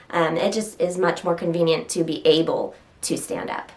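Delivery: sounding sarcastic without meaning to; dry, ironic-sounding delivery; accidentally sarcastic. Real, not acted. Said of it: "That felt like such a sarcastic thing to say".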